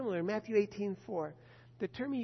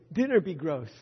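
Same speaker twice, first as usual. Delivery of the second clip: put-on child's complaint; 3 semitones lower, 7 dB louder than usual. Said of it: "And he said".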